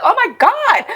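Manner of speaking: high laughing gasp of shock; shocked oh my god. Retold or imitated. Kid in spinning car, shocked laughing squeal.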